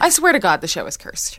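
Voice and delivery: loud, exasperated; frustrated outburst. Acted. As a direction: vent the frustration loudly.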